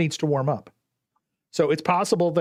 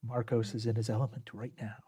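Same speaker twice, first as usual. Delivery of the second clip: golf commentator; 4 dB quieter than usual. Acted. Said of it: "my golf voice".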